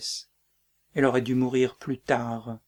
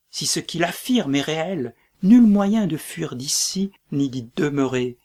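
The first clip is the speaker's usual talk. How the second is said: desperate raised voice; 2 semitones higher, 7 dB louder than usual. Acted. Macbeth desperate in battle.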